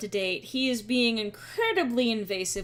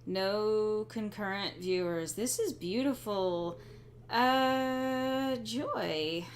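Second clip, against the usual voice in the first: slow, deadpan sarcasm; dry, unimpressed sarcasm; sarcastic; 4 dB quieter, much slower than usual. Real, not acted. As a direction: draw it out with dry mock delight. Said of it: "Please pardon my sarcasm".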